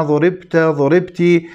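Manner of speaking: ضربت said as duribt, with a damma on the ض; wrong passive reading. Shown as a demonstration. Teacher to students, showing the wrong passive reading duribt. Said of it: "حتى لا أحد يقرأها بصيغة المبني للمجهول".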